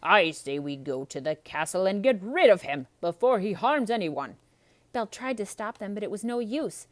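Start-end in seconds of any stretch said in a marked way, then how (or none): 0.0-4.4 loud rabble-rousing call; rallying Gaston. Acted. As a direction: stir the mob up. Gaston rallies the crowd.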